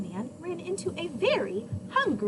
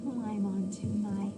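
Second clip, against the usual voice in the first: smirk; 5 semitones lower, 4 dB quieter than usual. A narrator's reading. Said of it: "smirked the fox".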